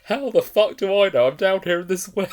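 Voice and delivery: hammed-up trapped girl yelling back in disbelief; exasperated shriek. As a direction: scream it up from the bottom of a well. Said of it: "the way she just delivered it".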